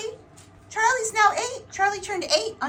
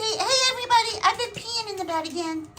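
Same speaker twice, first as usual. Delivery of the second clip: fast, silly put-on pet voice; voicing the dog's confession.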